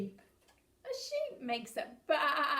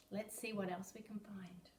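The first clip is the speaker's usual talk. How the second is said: whisper; 3 semitones lower, 7 dB quieter than usual. Acted. Whispered to children.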